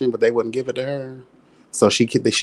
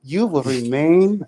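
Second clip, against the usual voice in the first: slow, hypnotic vampire command, pitched up; 4 semitones higher, slower than usual. Pretend. Vampire hypnotizing a man, slow and commanding. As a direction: loom over the victim with a vampire's spell.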